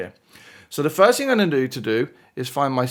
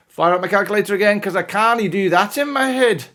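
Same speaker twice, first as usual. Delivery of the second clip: higher, quick mock-Scottish voice; bad Scottish accent; 7 semitones higher, 3 dB louder than usual. Maths teacher firing up the calculator, in a bad Scottish accent. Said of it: "my very bad impersonation of a Scottish accent".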